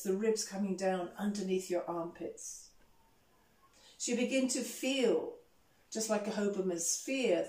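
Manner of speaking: calm breath guidance with long pauses; guided meditation. Real, not acted. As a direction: lead the class gently through the breathing. Leads breath awareness.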